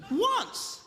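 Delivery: startled once. Retold or imitated. Woman answers startled.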